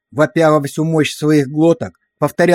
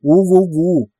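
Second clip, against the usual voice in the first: soft howl; 3 semitones higher, slower than usual. A narrator's reading. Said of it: "тихонько подвывать на алабамский манер".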